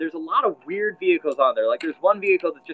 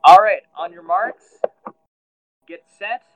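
slow, spaced countdown, loud final launch; Professor Positron; 9 dB louder, slower than usual. Acted. Professor starts the race at the microphone, starter's call. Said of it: "Professor Positron goes and stands up".

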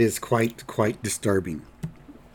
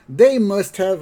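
put-on high, slightly louder old voices together; old couple in unison; 9 semitones higher, 5 dB louder than usual. Grandpa and old lady speaking at once, high. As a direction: chime in together like two old people. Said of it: "both of them at the same time".

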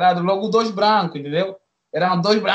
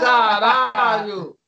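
slow stunned curse; 2 semitones higher, much slower than usual. Retold or imitated. Shocked reaction retold.

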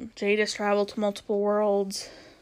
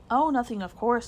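dry sarcastic brush-off, slightly raised; 3 semitones higher, 4 dB louder than usual. Acted. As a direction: say it with mock innocence. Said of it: "said Polly sarcastically".

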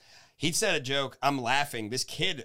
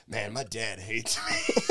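mock sad; 4 semitones lower, much slower than usual. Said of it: "Kyle's like".

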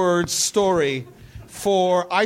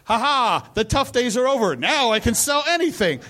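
mock triumph; 5 semitones higher than usual. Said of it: "and I went".

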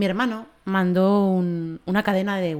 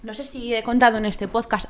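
far from mic; 2 semitones higher than usual. Real, not acted. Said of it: "Acércate, acércate al micro".

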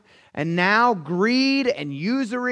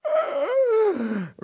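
high-pitched, drawn-out comic wail; exaggerated blubbering without words; mock bawling. Husband who bawls at movies, mock bawling. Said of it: "'Cause she's wiping a tear and I'm like".

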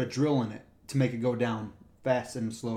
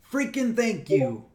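slow, higher sarcastic thanks; 7 semitones higher, 3 dB louder, slower than usual. Retold or imitated. Cyclist taking his ticket, slow sarcastic thanks. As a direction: drag it out bitterly.

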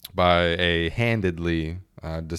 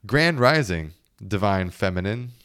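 smarmy spiritual guy. Retold or imitated.

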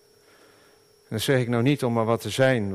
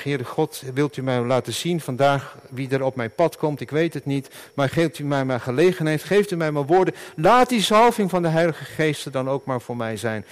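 demo prayer; 2 semitones higher than usual. Shown as a demonstration. Preacher modelling a daily prayer for the congregation. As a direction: pray it aloud as an example. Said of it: "oefen dat gewoon ook maar elke dag".

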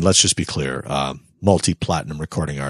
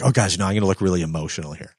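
mock fake emotion; faster than usual. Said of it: "don't come out red-eyed and like".

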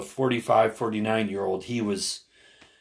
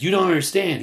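high, louder imitated exasperation; retold heated protest; 9 semitones higher, 5 dB louder than usual. Older protester arguing with younger man, imitated exasperation. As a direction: insist he has it wrong, quoting a quarrel.

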